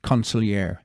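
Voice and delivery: consigliere said the Italian way, lightly rolled r and open vowels; Italian pronunciation. Shown as a demonstration. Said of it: "How do you like my Italian pronunciation".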